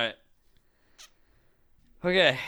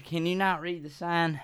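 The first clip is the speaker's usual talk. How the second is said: put-on Southern drunk accent; 2 semitones higher than usual. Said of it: "stuck in the Southern accent".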